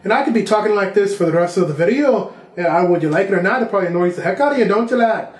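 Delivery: light mock Irish accent; teasing Irish lilt, not overdone. Shown as a demonstration. Teasing the viewers in a playful Irish accent. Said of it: "Tell you this in an Irish accent".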